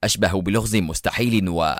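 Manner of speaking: understated, unbothered taunting; offhand sarcastic menace; mocking nonchalance. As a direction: explain it calmly with a touch of scorn. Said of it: "وهو يقول في استهتار ساخر".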